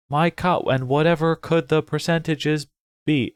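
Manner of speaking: flat, even robot reading. Shown as a demonstration. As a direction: read it like a robot, no feeling. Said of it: "I'm reading him like a robot now".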